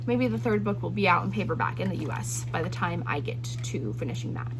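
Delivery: talking through a dry, scratchy throat. Real, not acted. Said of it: "my throat is dry".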